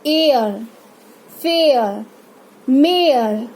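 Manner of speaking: एयर, फेयर, मेयर gliding from e to a schwa; diphthong demonstration. Shown as a demonstration. Teacher models double sound, e-to-uh glide in एयर, फेयर, मेयर. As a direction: separate words, each e sliding into uh. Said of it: "अ का sound निकल रहा है".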